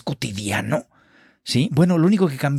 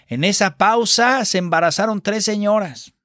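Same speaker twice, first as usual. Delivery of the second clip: raised, exasperated director's complaint; theater teacher yelling; 7 semitones higher than usual. Retold or imitated. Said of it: "nos gritaba".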